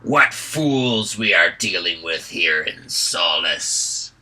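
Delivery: put-on loud, sneering hobgoblin with a thick accent; mock the travellers in a thick foreign accent. Hobgoblin leader sneers at the captured travellers, thick accent. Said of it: "speaking the common tongue with a thick accent".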